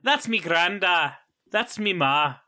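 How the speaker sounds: slow, hammed-up Irish accent; bad Irish accent. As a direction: put on a cod Irish accent. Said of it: "like, a bad Irish accent".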